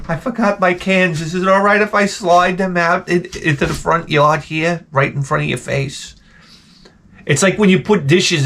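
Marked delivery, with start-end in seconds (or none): 0.1-6.2 higher sheepish apologetic voice; guilty. Retold or imitated. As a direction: ask timidly, fading out. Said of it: "with this guilty look on my face".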